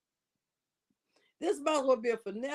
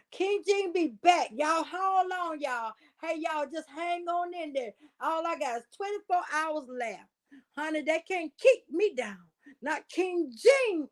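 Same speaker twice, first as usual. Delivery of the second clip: mock defiant diva; 3 semitones higher than usual. Acting out King Jin in the ward.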